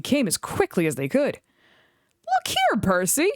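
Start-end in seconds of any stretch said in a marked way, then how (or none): 2.3-3.3 higher, surprised call; exclaiming. A narrator's reading. Toby calling Percy to see, excited. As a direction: call out eagerly. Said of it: "exclaimed Toby".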